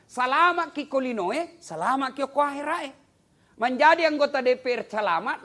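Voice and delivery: high, loud preaching cry; full-force preaching. Acted. Preacher lifting the crowd with a loud, high cry.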